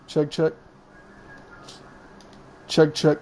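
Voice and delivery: full-volume check, check. Real, not acted. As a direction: say it out clearly at full level. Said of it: "that sounds better to me".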